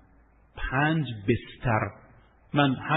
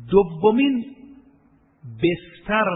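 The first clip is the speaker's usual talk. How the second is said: emphatic announcement; 5 semitones higher, 4 dB louder, slower than usual. Real, not acted. Announcing the second point.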